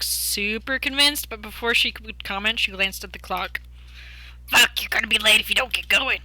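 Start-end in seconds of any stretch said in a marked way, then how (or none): 4.5-6.2 hissed hurried warning; urgent whisper. Acted. Urgent character line.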